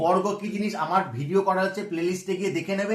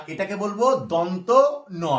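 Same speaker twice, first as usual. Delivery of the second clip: slow teacher emphasis; slower than usual. Shown as a demonstration. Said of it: "এটাকে ন বলবো না".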